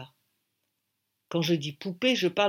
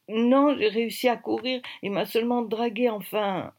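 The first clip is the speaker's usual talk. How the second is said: put-on higher-pitched girl character; lightly voiced girl, pitched up; young girl's voice; 5 semitones higher than usual. Girl answering in narrated dialogue.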